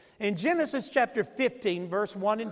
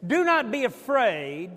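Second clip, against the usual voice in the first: like you mean it; 2 semitones higher than usual. Shown as a demonstration. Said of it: "Now say it like you mean it".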